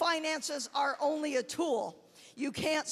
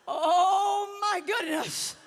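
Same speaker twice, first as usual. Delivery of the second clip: slow, loud laughing exclamation; laughing shout; 4 semitones higher, 6 dB louder, much slower than usual. Real, not acted. Realizing the mistake, she laughs out loud. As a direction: let it burst out with laughter.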